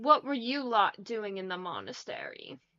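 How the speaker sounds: snarling, swooping delivery. A squad leader extends a short spear toward you, snarling soldier. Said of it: "He snarls".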